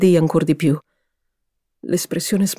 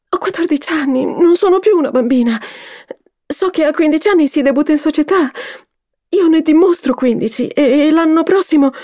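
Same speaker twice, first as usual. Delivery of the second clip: put-on high, louder girl pleading; impulsive plea; 11 semitones higher, 5 dB louder than usual. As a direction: insist to mother she's grown up. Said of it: "esclamò d'impulso". (ragazza che supplica, acuta e accorata)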